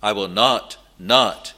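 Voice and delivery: "not" said twice, each set apart; firm, separate stress on each "not"; doubled negative stressed. Shown as a demonstration. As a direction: hit "not", pause, then hit "not" harder. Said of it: "it is a double negative".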